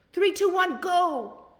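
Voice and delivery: loud, high countdown to launch; countdown shout. Shown as a demonstration. Coaching viewers to act, a loud high countdown. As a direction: count it down and blast off. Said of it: "You gotta say".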